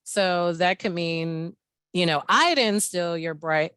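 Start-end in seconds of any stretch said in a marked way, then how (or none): 2.3-3.7 I given extra weight up front; stress on I. Shown as a demonstration. Host explaining one meaning to the group, stress on I. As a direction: lean on the word I. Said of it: "when you emphasize I".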